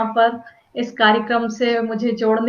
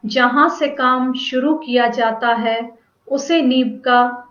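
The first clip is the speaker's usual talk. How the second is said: measured poetry reading with pauses between phrases; deliberate, phrase-by-phrase poem delivery; poem recitation. Acted. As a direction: recite verse line by line, letting each phrase fall at its end. Recites her second poem.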